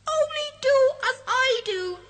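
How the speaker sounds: high, loud cheeky sprite voice; a mischievous sprite teasing the friends. Acted. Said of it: "laughs the other".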